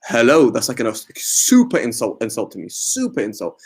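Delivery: indignant friend, stressing super; drawn-out, affronted protest; offended reply. Acted. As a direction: act out being deeply insulted.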